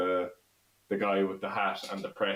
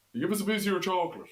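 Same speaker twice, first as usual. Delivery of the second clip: put-on Roscommon accent, pitched higher; 11 semitones higher than usual. Showing what a Roscommon person says: put-on Roscommon accent. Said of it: "I can do one word that maybe".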